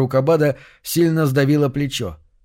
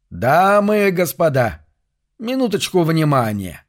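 slow, higher, otherworldly announcer; echoing ethereal energy being; 4 semitones higher than usual. Acted. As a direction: call out from beyond the grave. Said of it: "невыразительный потусторонний голос".

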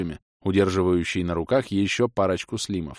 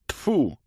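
gruff spit; 8 semitones higher than usual. A narrator's reading. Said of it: "басовито рыкнул Варамо".

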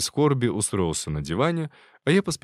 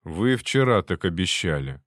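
grumbling; 2 semitones lower than usual. Acted. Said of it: "пробурчал Шуклин".

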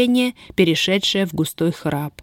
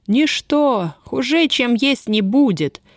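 sullen; 6 semitones higher, slower than usual. Acted. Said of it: "угрюмо послышалось из темноты".

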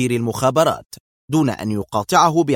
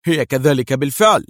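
louder, amused confidence; enjoying it; 2 semitones higher, 4 dB louder than usual. A narrator's reading. Adham answers Mona over the helicopter, clearly enjoying it. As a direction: relish the moment. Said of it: "بلهجة حملت استمتاعا واضحا".

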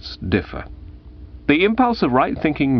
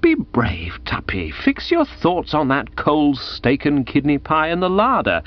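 hushed, gentle encouragement; consoling; 5 semitones higher than usual. Acted. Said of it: "I endeavoured to hearten and console".

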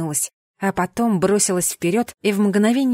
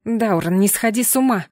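indignant. Acted. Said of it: "возмутилась я".

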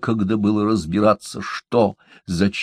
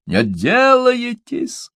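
very high, slow, drawn-out screech; a maddened woman screeching as they flee; shrieking; slower than usual. A narrator's reading. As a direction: scream it after them in a frenzy. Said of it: "взвизгнула Тубала".

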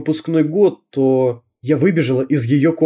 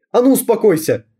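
commanding; 8 semitones higher than usual. Acted. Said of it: "приказала она".

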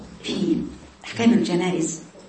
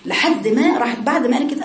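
usual speaking voice

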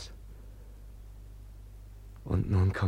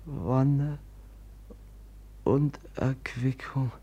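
prayer. Acted. Brother prays for the dead woman by candlelight. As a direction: pray over the dead, reverently. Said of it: "ich will beten".

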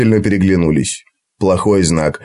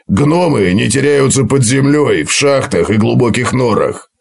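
dwarf voice. Acted. Gotrek voiced in story.

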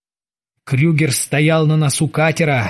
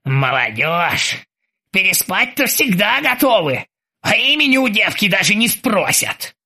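put-on grumbling old sailor; 3 semitones higher than usual. A narrator's reading. The old sailor scolds Krueger about young men. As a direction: scold the youth, wryly.

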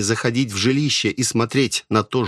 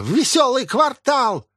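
wheezing hag; 14 semitones higher than usual. Acted. Possessed old woman rasping at Асами to sell herself. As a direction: rasp it out like a starving crone.

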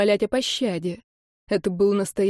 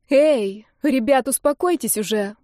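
louder, higher call to stop; 4 semitones higher, 3 dB louder than usual. Acted. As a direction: shout them apart from a distance. Nika runs up calling.

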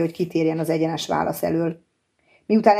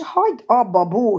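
higher, understated cry of protest; mild shriek; 5 semitones higher than usual. A narrator's reading. Cassie interrupts Bo's life story, mildly shrieking. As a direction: cut in with a restrained, high-pitched cry. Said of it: "sikoltott fel a lány".

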